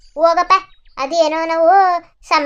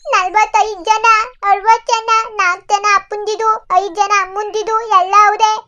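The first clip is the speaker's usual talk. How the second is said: put-on high, childlike voice, a bit louder; lost little girl; 7 semitones higher, 4 dB louder than usual. Lost girl answering the man who found her, high childlike voice.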